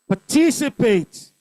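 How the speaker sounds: Participate with a strong "tic"; stress on second syllable. Shown as a demonstration. Teacher drilling stress patterns, Participate stressed on its second syllable. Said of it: "Second syllable".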